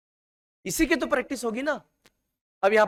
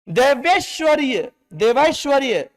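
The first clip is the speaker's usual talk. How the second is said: देवैश्वर्य said slowly and louder, syllable by syllable; slow dictation; 4 semitones higher, 4 dB louder than usual. Shown as a demonstration. Teacher dictates देवैश्वर्य to students slowly and loudly. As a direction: spell out देवैश्वर्य carefully for the class. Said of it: "तो यहां पर आपको देव भी".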